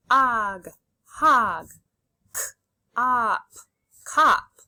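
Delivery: loud separated sounds, "r, ut", then blended "rut"; sounding out, blending. Shown as a demonstration. Teacher leads children reading C V C words, loud segmented blending. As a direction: stretch "og", pause, then blend into "hog". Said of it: "Say the sounds and blend with me".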